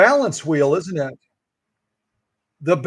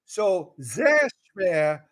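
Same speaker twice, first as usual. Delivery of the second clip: slow German; much slower than usual. Shown as a demonstration. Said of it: "saying gibberish".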